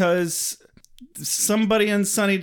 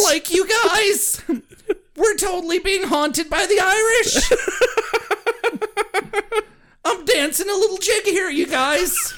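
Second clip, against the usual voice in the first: laughing; 12 semitones higher than usual. Real, not acted. Laughing excited Irish joke.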